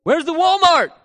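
high, loud mock yell; mock heckling. Crowd complaining to Moses in the desert, mock heckling.

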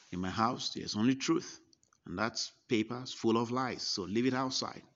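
booming stern rebuke at the door; stern loud command. Retold or imitated. Old preacher ordering the visitor to throw away his paper, loud and stern. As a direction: bark it out like a fierce old preacher.

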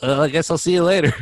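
witch voice. Retold or imitated. Witch's last words in the retold plot.

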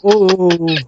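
long trailing ooh; flashback ooh. Pretend. Storyteller sliding back to the old fair, flashback ooh. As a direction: let the flashback sound wobble out.

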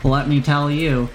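know-it-all proprietor bluffing, with drawn-out pauses; halting, puffed-up merchant patter; stalling shopkeeper. Acted. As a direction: stall for answers in a wandering accent. Shopkeeper bluffs through explanation.

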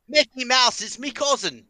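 cartoon voice. Joke voice after accent talk.

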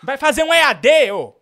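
loud, high taunt breaking into laughter; laughing shout. Acted. Host repeating his taunt at the caller, laughing. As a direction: yell it while cracking up.

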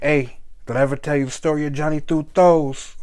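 put-on mobster-style New York accent. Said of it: "that fake New York accent".

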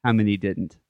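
slow, drawn-out riddle with long pauses; deliberate, spaced-out riddle telling. Shown as a demonstration. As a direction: stretch TWENTY, then pause before each next chunk. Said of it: "say it a little slower".

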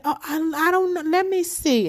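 imitating a fake-innocent manager; mock innocent. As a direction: play dumb in a high mocking voice. Mocking the manager's fake ignorance.

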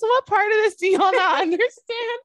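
high, slow, stubborn whine of refusal; exaggerated stay-home protest, high and drawn out; mock defiant refusal. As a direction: dig in your heels, no way am I going out. Mock defiant self quote.

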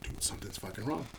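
quiet, low retold worry; subdued, uneasy confiding; understated dread. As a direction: drop it low and soft, sure that it's bad.

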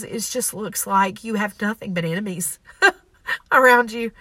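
fighting back tears while speaking; getting emotional. Real, not acted. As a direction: voice cracking with real tears. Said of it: "I'm trying not to get emotional".

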